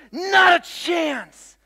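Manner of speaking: high, slow shouted refusal; mock shout. Secretary refusing to budge, shouting it high. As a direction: bellow a flat-out no. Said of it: "And she goes".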